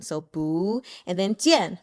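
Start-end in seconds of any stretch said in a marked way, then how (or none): 0.2-0.8 "bu" taken up in pitch; rising second tone on "bu". Shown as a demonstration. Teacher showing the changed tone, "bu" going upward. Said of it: "take it up like a second tone". 1.3-1.8 "jian" with a falling fourth tone. Shown as a demonstration. Teacher showing the last character, falling "jian". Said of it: "fourth tone".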